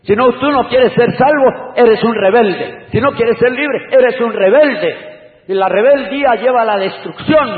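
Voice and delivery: loud, high pulpit warning; fiery preaching. Acted. Preacher warning the congregation, loud and fiery.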